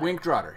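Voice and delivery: "Wink Drotter" with swapped first sounds; spoonerized "Wink Drotter"; spoonerism. Shown as a demonstration. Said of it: "he spoonerizes".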